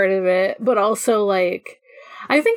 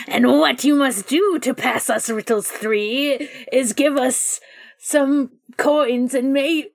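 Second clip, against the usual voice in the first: goblin riddle voice; 3 semitones higher, slower than usual. Acted. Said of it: "I just wanted to do a funny little goblin riddle voice".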